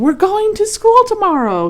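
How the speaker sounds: high, loud eager announcement; farmer's announcement. Acted. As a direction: call it out to the animals. Farmer announces to excited animals.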